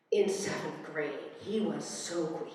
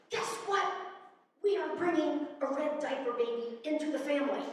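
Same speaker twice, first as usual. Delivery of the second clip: higher-pitched, bubbly phone news; retold excited announcement; 7 semitones higher than usual. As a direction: break the big news to mom. Phoning mom with big news.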